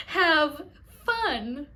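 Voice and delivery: mock-manic greeter through a laugh; unhinged, over-happy send-off; creepy greeter. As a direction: imitate a cuckoo greeter, laughter in the voice. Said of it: "she would go".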